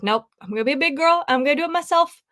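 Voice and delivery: quick, rising self pep talk; lightly plucky and hurried, pitch climbing; retold brave resolve. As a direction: put on a brave big-girl front, quickly.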